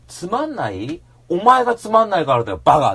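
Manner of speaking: a friend's pet theory, yelled; scolding shout. Acted. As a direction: snap at the bored audience. Acted scolding of bored audience.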